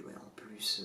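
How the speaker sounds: muttered inner grumble, unvoiced; whispered thought. Telling viewers his frustrated thoughts, in a whisper. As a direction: whisper it under your breath.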